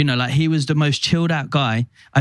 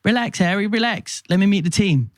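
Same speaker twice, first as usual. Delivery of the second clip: playful Pope; 6 semitones higher than usual. Retold or imitated. Pope voiced, higher.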